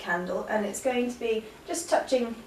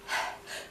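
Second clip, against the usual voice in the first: quick silent in-breath; 11 dB quieter than usual. Shown as a demonstration. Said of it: "like that".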